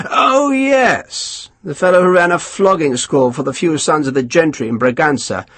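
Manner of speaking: lightly voiced self-satisfied officer; a hint of a smug English colonel; pompous colonel. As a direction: savour each word, pleased with yourself. Colonel dismissive then commanding.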